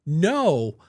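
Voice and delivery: a fan refusing to let it go; insistent fan. Retold or imitated. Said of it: "she literally was like".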